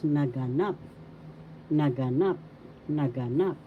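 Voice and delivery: naganap repeated, each time accenting the final NAP; stress on third syllable. Shown as a demonstration. Teacher repeating for learners, naganap stressed on last NAP. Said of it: "The third syllable has the accent".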